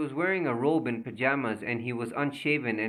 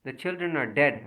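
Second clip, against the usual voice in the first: mild shriek; 3 semitones higher, 3 dB louder than usual. Acted. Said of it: "Anna Gassner shrieked".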